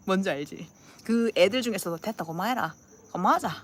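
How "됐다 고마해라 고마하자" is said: blunt peacemaker. Acted. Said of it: "막 이렇게 하는 애들".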